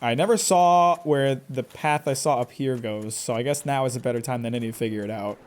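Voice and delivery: ordinary talk, nothing marked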